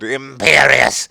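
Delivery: slow, drawn-out spell call; mock villain shout; Voldemort casting. A narrator's reading. Voldemort cursing Ebony, slow mock spell. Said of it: "Voldemort shouted".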